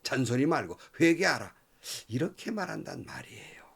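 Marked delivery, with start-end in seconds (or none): 0.0-1.5 know-it-all rebuke. Retold or imitated. Friends scolding Job to repent, know-it-all lecture. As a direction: snap at him as if you know everything. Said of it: "다 아는 것처럼".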